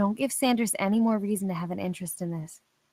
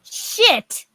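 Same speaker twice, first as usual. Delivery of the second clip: high, loud exclamation; Alice cursing as Damien floors it, shouted; shouted curse; 12 semitones higher, 11 dB louder than usual. Acted. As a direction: blurt it out in alarm. Damien speeds off recklessly.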